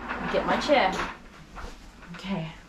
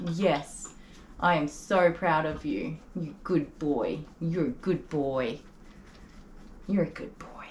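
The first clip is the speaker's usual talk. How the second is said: tender; 3 semitones lower, 3 dB quieter, slower than usual. Real, not acted. Tender slow praise to dog.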